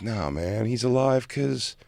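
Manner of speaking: a hint of a stoned, dreamy Mike, slowed down; Trippy Mike. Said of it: "Trippy Mike".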